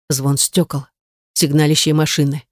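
ordinary delivery

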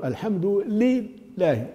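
"الحمد لله" slowly, with a long stressed "lii"; lam with kasra. Shown as a demonstration. Teacher modelling the rule, first lam drawn out as "li". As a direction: split "الحمد لله" as al-hamdu, lii, lahi. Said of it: "اللام الأولى هي لام مكسورة".

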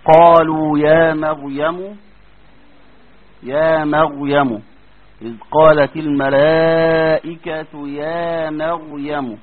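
slow chanted "مريم" with a thick ra; recited heavy ra. Shown as a demonstration. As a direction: recite "يا مريم" slowly in Quran style. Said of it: "زي كلمة مريم".

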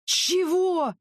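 sharp high roar of outrage. A narrator's reading. A touch of Sokol roaring at the officer's lecture. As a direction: bellow it, leaping up. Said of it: "взревел Сокол".

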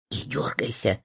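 soft, hushed warning; frightened whisper. A narrator's reading. A scared patient outside the door whispers softly. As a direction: whisper it nervously to a friend. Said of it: "испуганный шёпот".

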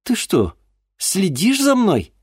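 high, loud, slow indignant cry; sudden anger. Acted. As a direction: flare up at him. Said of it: "внезапно разозлилась Диана".

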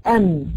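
ام ending on closed humming lips; sakin mim demo. Shown as a demonstration. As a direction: say ام and hold the closed م. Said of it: "الميم الساكنة". (نطق ام بميم ساكنة)

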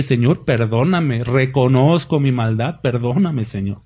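slow, hushed plea to the Lord; a contrite sinner asking forgiveness; humble prayer. Acted. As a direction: pray it slowly, fading to a murmur.

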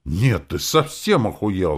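high, loud, drawn-out outrage; indignant holler; outraged yell. A narrator's reading. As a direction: yell it in indignation, stretching the words. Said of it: "заорала Роза".

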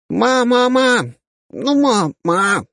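put-on very high, insistent nagging kid; rapid-fire chatter. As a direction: pester mom like a machine gun. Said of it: "со скоростью пулемёта затараторил".

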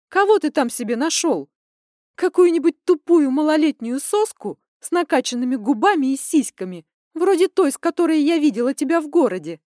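high, loud, scornful daughter; furious accusation. Acted. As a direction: spit out every jab.

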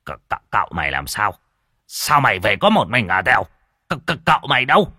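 stammering in alarm, fast; a father who senses his son is dead. Acted. Father stammers asking servant where his son is, alarmed. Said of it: "hoảng hốt".

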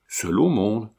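Seul au monde? thrown back with a rising question tune; a mild hint of a lover echoing her words in disbelief; incredulous echo.

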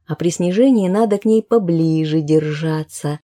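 ordinary delivery, nothing marked

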